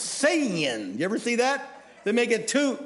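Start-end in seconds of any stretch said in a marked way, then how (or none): 0.0-1.0 "Sin." stretched into two syllables, "si-in". Retold or imitated. Preacher imitating fundamentalists, "Sin." in two syllables. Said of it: "made it two syllables".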